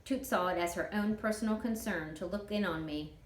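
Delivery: ordinary delivery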